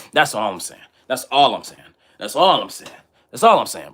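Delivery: rising from plain to loud insistence; insistent repeat. Real, not acted. Telling his live chat, building to a loud insistence.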